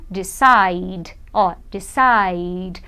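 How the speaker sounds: low, stretched "decide", ending on D; final D sound. Shown as a demonstration. Teacher shows the silent E, "decide" ending on a D sound. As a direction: draw out "decide" so the last D is heard. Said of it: "Mas o som é de".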